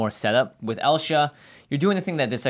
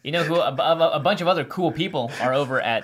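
laughing. Real, not acted. Laughing while talking.

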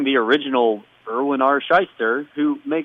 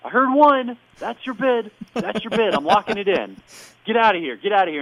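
mock Bob Barker; 8 semitones higher than usual. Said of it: "And Bob Barker says".

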